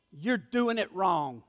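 slow, quiet, pointed; low emphatic verdict. Real, not acted. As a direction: drop low and soft on "you're doing it wrong". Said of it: "very emphatic".

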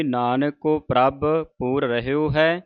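ਪ੍ਰਭ given a light vocal shake; ਪ੍ਰਭ with jamki. Shown as a demonstration. Teacher shows the sangat the jamki on ਪ੍ਰਭ. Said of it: "ਪ੍ਰਭ 'ਤੇ ਜਮਕੀ ਲਾਉਣੀ".

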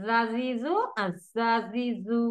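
জাজিজু first with জিহ্বার আগা নিচে, then উপরে, slow; contrasting জা sounds. Shown as a demonstration. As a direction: say জাজিজু twice, two different tongue places. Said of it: "দুটা কি একরকম হয়?". (জাজিজু দুইভাবে ধীরে, আলাদা মাখরাজে)

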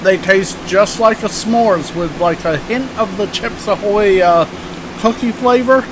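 slightly full mouth; muffled by food; talking while chewing. Real, not acted. Seen 0: Bites cookie at -5, holds it near mouth, jaw working throughout.

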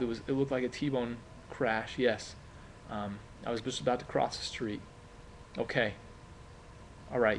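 hesitant, soft, with lots of ums; a witness trying to stay calm; nervous eyewitness reporting a crash to the police; nervous call to police. Shown as a demonstration. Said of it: "my voice was kinda nervous".

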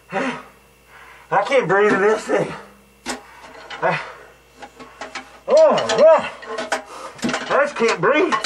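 struggling to talk through a covering over the face; half-smothered and slow behind a hood; muffled under a bag. Real, not acted. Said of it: "the bag on the head with the stuff".

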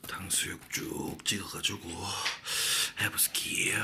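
hushed playful whisper. Acted. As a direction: whisper the catchphrase. Whispered food catchphrase.

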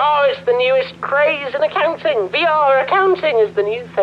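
high-pitched, enthusiastic hype; excited sales pitch. Acted. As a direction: sell the new craze with eager excitement. Hyping virtual reality accounting to player.

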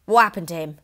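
loud alarmed splutter. A narrator's reading. Husband alarmed by Matilda's tale, spluttering. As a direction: blurt it out in alarm. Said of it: "he spluttered".

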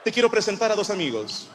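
lightly voiced silky menacing villain; James Bond villain. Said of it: "con voz de villano de James Bond".

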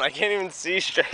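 dizzy, laughing; giggly and woozy from spinning. Real, not acted. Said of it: "I'm dizzy still".

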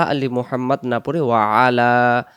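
ওয়া আলা split into two words; separated wa ala. Shown as a demonstration. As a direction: say ওয়া then আলা, not ওয়ালা. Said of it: "আমরা এই শব্দটাকে যেন ওয়ালা". (ওয়া আলা আলাদা করে উচ্চারণ)

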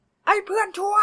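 high, loud drawn-out jeer; shrill insult. Acted. Ben jeers at his friend, high and loud.

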